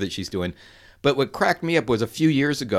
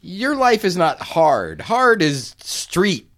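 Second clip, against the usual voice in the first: retold disbelief; 4 semitones higher, slower than usual. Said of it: "And I'm like".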